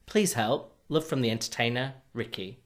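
spitting while talking; words with a spray of spit; spit take. Real, not acted. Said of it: "I just spat across the room".

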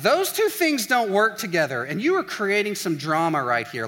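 calling out the drama, acted; mock objection. Partner objecting to the drama, mock indignant.

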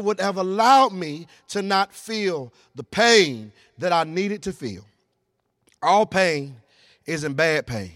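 slow, measured sermon with long pauses; solemn preaching. Real, not acted. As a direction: let each phrase land slowly and gravely.

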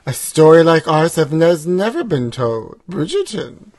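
slow, dramatic trailer-voice line; mock trailer voice. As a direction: read it like a movie trailer.

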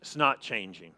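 a low, defeated murmur; a weary, low admission that nothing has changed; discouraged, low mutter. Retold or imitated. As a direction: sound like someone who has lost all hope. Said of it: "'cause they say".

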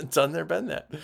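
jokey flubbed saying; laughing at the slip; mixed-up phrase. Shown as a demonstration. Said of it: "Been there, done that".

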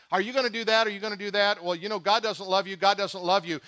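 a hint of a sly tempter; lightly voiced taunt; Satan's taunting voice. Preacher voices Satan's taunts to the congregation, lightly sly. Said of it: "He says".

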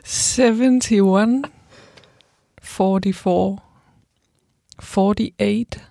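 slow, careful number reading; reading phone number. Shown as a demonstration. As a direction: read the number out slowly. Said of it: "I like it when you read phone numbers".

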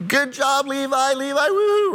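proud dad cheering from the stands, in a replayed yell; excited cheering, ending in a high woo-hoo. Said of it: "and I'm yelling".

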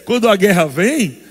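high laugh into the words; laughing preacher. Real, not acted. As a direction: laugh as you start. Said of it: "laughing mid-sermon".

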